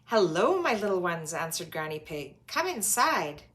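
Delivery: welcoming granny. Acted. Granny greets the children.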